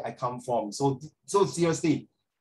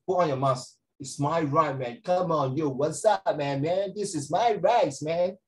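put-on American accent. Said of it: "You tell them".

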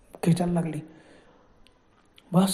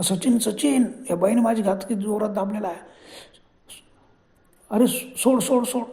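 panicked cry; 2 semitones higher than usual. Retold or imitated. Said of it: "Sudhakar एकदम ओरडला".

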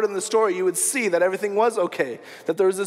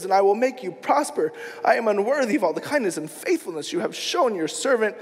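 earnest prayer, mildly raised; crying out in prayer. Acted. Jacob prays to God for protection, crying out. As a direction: call on God with measured urgency. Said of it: "crying out to God".

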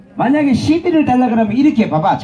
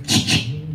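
soft spray hiss imitation; 6 semitones lower, 6 dB quieter, slower than usual. Shown as a demonstration. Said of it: "이래".

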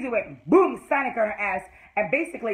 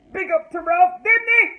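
big loud praise forced out; loud grudging shout-out; 8 semitones higher, 7 dB louder than usual. Real, not acted. Vlogger forcing herself to praise Ralph, loud. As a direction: shout it like it pains you. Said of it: "this is hard for me to do, but I'm gonna do it".

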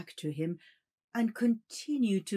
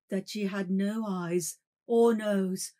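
rising terror; 8 dB louder than usual. A narrator's reading. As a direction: tell it as if fleeing. Terror of the faceless woman.

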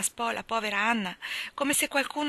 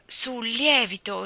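"lievito" slowed and leaned on; stress on lievito; 3 semitones higher, 3 dB louder, slower than usual. A narrator's reading. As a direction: drag out "sul lievito" with weight. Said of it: "appoggiò l'accento sulla parola". (accento marcato su "lievito")

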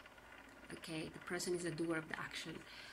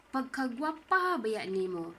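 slow, louder mock praise; sarkastisch; 4 semitones higher, 6 dB louder than usual. Shown as a demonstration. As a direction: say it like a backhanded compliment. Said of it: "a sarcastic expression".

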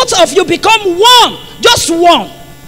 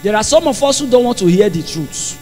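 low, soft preaching remark; subdued aside; 7 semitones lower, 5 dB quieter than usual. Real, not acted. First take, dropped low.

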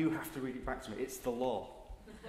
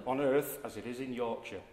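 put-on Yorkshire accent. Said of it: "In a Yorkshire accent".

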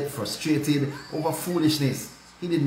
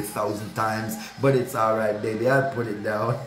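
cheerful forgiving; 2 semitones lower than usual. Shown as a demonstration.

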